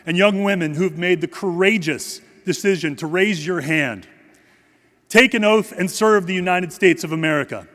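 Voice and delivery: solemn, measured ceremonial address; formal speech. Acted. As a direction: deliver it like a dignified tribute.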